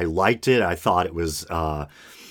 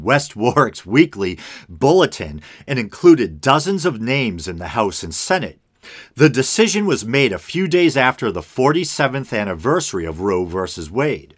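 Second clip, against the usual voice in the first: article read aloud with lively emphasis; news read; 2 semitones higher than usual. Acted. Host reading a Newsweek story to listeners, news read. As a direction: read it out like a news item, key words lifted.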